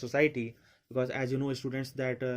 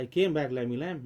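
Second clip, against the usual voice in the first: teasing call; 3 dB louder, faster than usual. Acted. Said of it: "बोलता है".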